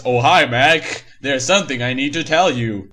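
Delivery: barely deepened Blue saying hi; lightly deep voice. Acted. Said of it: "says with a deep voice".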